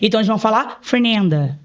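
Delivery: Fernanda with a clear tapped r; American way. Shown as a demonstration. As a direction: Fernanda said as foreigners say it, the r spoken plainly. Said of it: "Eles não conseguem falar Fernanda".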